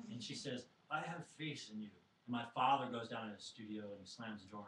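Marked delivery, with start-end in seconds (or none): 0.9-1.9 put-on mom's mixed French, Southern and Yiddish accent; lightly put-on French-Yiddish-Southern lilt. Mom reassuring her doubting son, French-Southern-Yiddish accent. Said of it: "my mom has a, a southern accent, but she's from France".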